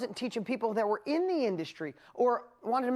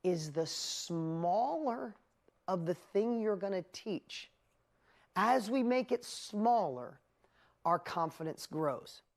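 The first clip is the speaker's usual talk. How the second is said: slow, weighty emphasis; slower than usual. Shown as a demonstration. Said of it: "I'm really gonna hammer this home".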